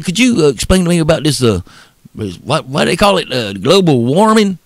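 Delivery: high, stammering Southern hick; redneck Southern voice. Retold or imitated. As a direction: play a humble, dim Southerner, tripping over words. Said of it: "I asked him like that".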